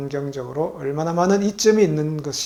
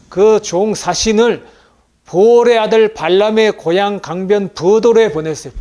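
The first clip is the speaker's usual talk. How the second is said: scripture read aloud; 6 semitones higher, 12 dB louder than usual. Acted. Preacher reading the Bible passage to the congregation, loud proclamation. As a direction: proclaim the verse, higher and much louder.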